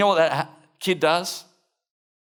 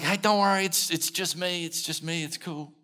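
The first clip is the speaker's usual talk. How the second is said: higher, light reassuring voice, softening as it goes; calm them down casually, trailing into softness; easygoing "it's only me" reassurance; 5 semitones higher than usual. Retold or imitated. Jesus calms the frightened disciples.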